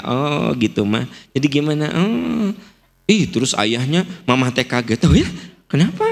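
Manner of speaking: mild interested oh-gitu listening; empathic listener. Shown as a demonstration. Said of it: "saya berusaha untuk berempati". (ibu yang menanggapi cerita anak dengan empati ringan)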